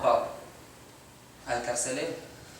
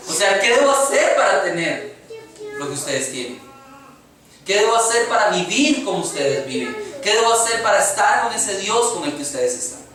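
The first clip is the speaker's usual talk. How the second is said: lightly acted urgent questioning, pitched up; pleading jailer; 4 semitones higher than usual. Preacher voicing the jailer asking Paul and Silas, lightly urgent plea. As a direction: plead a little, as the jailer might.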